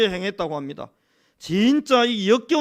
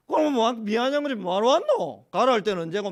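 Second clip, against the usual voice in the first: mildly mock-sarcastic grumble; 비아냥 흉내. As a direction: imitate someone sniping back, lightly. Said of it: "막 비아냥거리고 막 틱틱거리고". (살짝 비아냥대며 틱틱거리듯)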